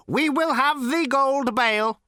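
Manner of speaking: high, slow, calmly patient machine; patient robot. A narrator's reading. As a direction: repeat it with endless machine patience. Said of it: "repeated the robot patiently".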